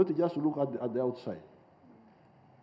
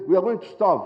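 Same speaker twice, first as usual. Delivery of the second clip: imitating a louder panicky wail; mock panic; 5 semitones higher, 7 dB louder than usual. Speaker mocking Ugandans fearing hunger, mock panicked wail. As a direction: mimic the frightened complaint. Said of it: "Oh, said".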